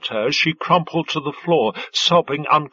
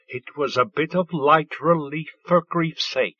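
voice kept even. Acted. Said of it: "keeping her voice even".

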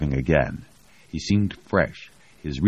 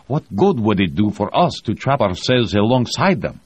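voicing the pilot; 7 semitones higher, 5 dB louder than usual. A narrator's reading. Pilot argues against descent.

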